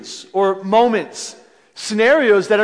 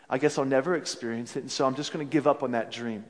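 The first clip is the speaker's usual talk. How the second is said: resigned inner voice; 8 semitones lower, 12 dB quieter, faster than usual. Retold or imitated.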